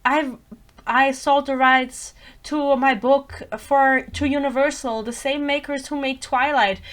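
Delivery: slow, deliberate mock of an author's boast; mock self-promotion, drawn out; imitating the author. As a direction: quote her boast slowly, drawn out. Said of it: "where she's like".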